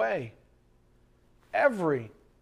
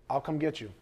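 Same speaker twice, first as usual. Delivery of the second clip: gentle resolve; 5 dB quieter, faster than usual. Acted. Shepherd gently telling the sheep he will come, tender. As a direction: quietly promise to fetch them.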